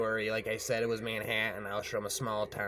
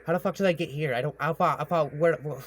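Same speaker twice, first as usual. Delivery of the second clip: panicked confusion; 6 semitones higher, 7 dB louder, faster than usual. Retold or imitated. Waking up confused by the river.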